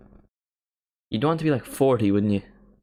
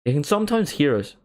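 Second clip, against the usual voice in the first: higher, lilting Northern Irish delivery; stronger Northern Irish accent; 4 semitones higher than usual. Shown as a demonstration. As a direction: let the Northern Irish accent come through, pitched up. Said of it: "I don't have a strong accent".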